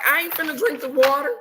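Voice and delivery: high, laughing retold reaction; laughing quote. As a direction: giggle through your own refusal. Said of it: "And I was like".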